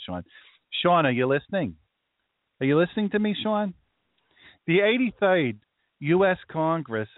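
put-on high-pitched, insistent Brooklyn Jewish accent. Checking Sean is listening to the history, in a Brooklyn Jewish accent. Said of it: "this is the accent that I think in".

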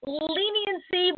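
slow, scornful drawn-out leniency; mocking. Real, not acted. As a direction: sneer the word Leniency slowly.

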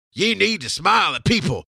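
high, forceful order in a put-on accent; mock yelling. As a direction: yell it like a pushy manager. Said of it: "I'm yelling at you".

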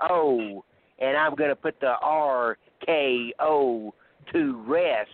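trash-talking wrestler promo; lightly voiced heel promo; wrestling promo. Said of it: "I'm gonna cut a promo".

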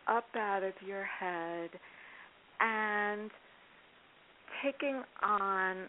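calm grounding exercise. Shown as a demonstration. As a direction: gently lead a meditation, unhurried. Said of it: "I could quickly guide you in it".

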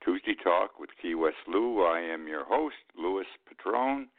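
breathless from rushing in; out of breath. Real, not acted. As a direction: talk while catching your breath. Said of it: "I'm out of breath".

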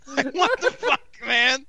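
high, breaking into laughter; laughing through it. Real, not acted. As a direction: laugh while you quote it. Laughing while quoting comment.

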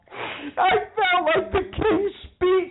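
very high, drawn-out exclamation; exclaiming. Real, not acted. Woman telling co-host about her stammering attempt, high exclamation. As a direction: cry it out, stretched and high. Laughing exclamation after failed recitation.

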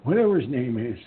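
put-on low gruff old man voice. Answering as confused old man.

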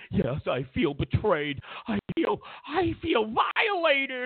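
drawn-out mock wail on violated; slow hammed-up cry of I feel violated; mock victim voice. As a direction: ham up a wounded voter. Mocking voters' reply.

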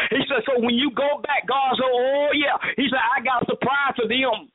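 rhythmic, driving sermon delivery; fervent preaching. Real, not acted. Preacher assuring the congregation of restoration, fervent preaching. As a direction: press each phrase home like a preacher. Preaches God's promise at length.

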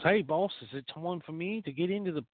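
high, eager little sidekick voice asking the boss; squeaky eager underling pleading with his boss; talking penis voice. Acted. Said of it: "penis perks up and he goes".

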